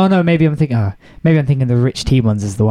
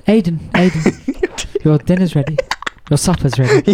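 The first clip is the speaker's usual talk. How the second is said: slow sing-song call up the stairs; drawn-out call to come and eat; calling kids to dinner; 4 semitones higher, slower than usual. Retold or imitated.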